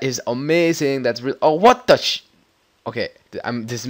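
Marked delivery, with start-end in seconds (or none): 1.4-2.2 loud, high oh what; sudden gamer surprise; startled outburst. Real, not acted. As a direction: jolt at the screen. Glitch surprise.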